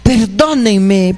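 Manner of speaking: slow, drawn-out plea for forgiveness; mild imitated sob-plea; pleading. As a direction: beg like a repentant sinner in tears. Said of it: "está llorando y dicen".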